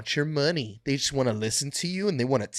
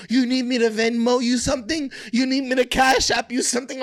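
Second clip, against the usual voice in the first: mock begging voice; 9 semitones higher, 3 dB louder, faster than usual. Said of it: "Mad people".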